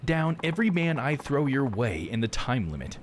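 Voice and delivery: hammed-up Texas accent; southern accent. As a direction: play a Texan game character setting a challenge. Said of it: "I've been giving such a southern accent".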